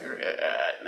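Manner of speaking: a breathless, voiceless cracked grunt; mild imitated choke of a first sound; cracked strangled gasp. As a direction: force a sound out through a dead throat. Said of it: "I cracked my voice and it was like".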